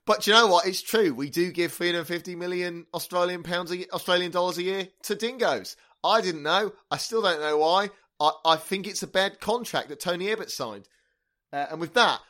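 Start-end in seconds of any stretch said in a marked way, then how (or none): 0.0-10.9 put-on terrible Australian accent. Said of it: "the terrible Australian accents are at an end".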